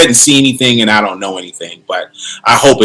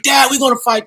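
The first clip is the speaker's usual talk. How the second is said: imitating his kids; 12 semitones higher, 3 dB quieter than usual. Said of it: "I got two kids".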